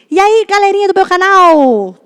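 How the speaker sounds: high, loud, bouncy YouTuber hello; mock the cookie-cutter YouTube intro; imitating every kid channel's opening line; YouTuber greeting voice. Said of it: "Eles começam tudo com a mesma voz".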